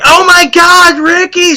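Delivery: high, alarmed mother's cry; a high mock scream from a horrified mom. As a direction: shriek at the lost son. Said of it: "She's screaming".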